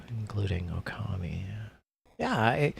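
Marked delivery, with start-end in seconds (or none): 0.1-1.4 whisper. Real, not acted. Teasing aside.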